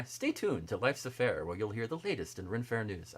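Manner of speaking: hammed-up broadcast announcer read; newscaster voice. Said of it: "I just sounded like a newscaster".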